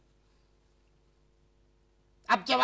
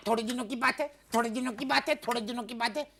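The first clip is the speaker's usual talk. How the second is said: skipping cd; 3 semitones lower than usual. Retold or imitated. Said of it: "CD अटक गई है".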